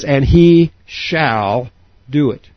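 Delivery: slow, weighty "He shall do it", leaning on "He"; emphatic shall. Shown as a demonstration. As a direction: press each word of "And He shall do it" slowly. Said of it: "it means emphatically".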